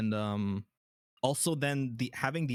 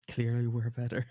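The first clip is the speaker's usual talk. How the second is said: laughing. Real, not acted. Teasing joke about chat.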